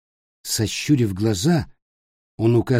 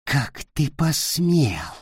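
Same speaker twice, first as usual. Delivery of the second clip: hissed fury; 4 semitones higher, much slower than usual. Acted. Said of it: "прошипел он".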